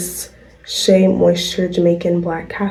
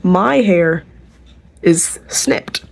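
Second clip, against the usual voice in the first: retold dismayed realization; much slower than usual. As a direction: act out discovering the damage, trailing to a near-whisper. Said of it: "and I'm like".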